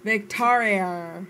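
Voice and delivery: Victoria slowly stretched in attempted Australian; accented Victoria. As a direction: draw out Victoria syllable by syllable with an accent. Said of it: "You forgot the R at the end".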